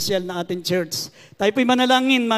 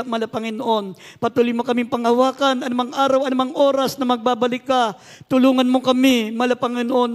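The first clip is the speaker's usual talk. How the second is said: earnest, slightly raised praying voice; fervent prayer; 3 semitones higher, 4 dB louder than usual. Real, not acted. Pastor praying to the Lord for his congregation, fervent prayer. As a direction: plead to God on their behalf.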